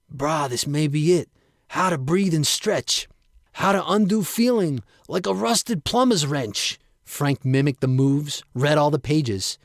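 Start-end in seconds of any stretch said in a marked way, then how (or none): 0.1-6.8 a hint of the brash bro, rising excitement; Frank's bro voice, lightly. Frank reading online, lightly voiced excited bro. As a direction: bro getting hyped at a discovery. Frank reads his find.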